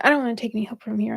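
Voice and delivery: rattled off very fast in voice; rushed refusal. Retold or imitated. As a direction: blurt it out quickly, defensive. Ego refusal repeated aloud.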